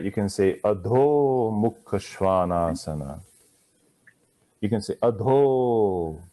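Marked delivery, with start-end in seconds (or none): 0.6-3.2 "Adho Mukha Svanasana" slow, long held ahs; no hurry, hold every long ah; slow, held vowels. Shown as a demonstration. Teacher showing the class, slow drawn-out vowels. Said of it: "take all the time in the world". 5.0-6.2 "Adho" with the a held several beats; held long a. Shown as a demonstration. Teacher demonstrating, long held a. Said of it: "hold it for two, three, four, five beats".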